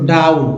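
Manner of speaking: डाउन said with an "aa-oo" glide. Shown as a demonstration. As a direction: model डाउन with the "ow" vowel, not "oh". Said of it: "यहाँ पर ओ डब्ल्यू को आ".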